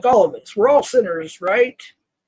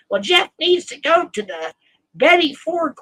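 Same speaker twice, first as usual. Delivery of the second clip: higher, sneering parody of Jen's claim; mocking imitation; 7 semitones higher than usual. Calling out Jen A's lies to chat, mocking imitation. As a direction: mimic her gossip with disdain. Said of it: "you create your own narrative".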